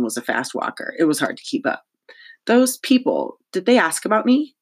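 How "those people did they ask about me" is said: higher-pitched schoolgirl asking urgently; urgent question. Acted. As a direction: ask it high and eager. Cass anxiously questions the principal.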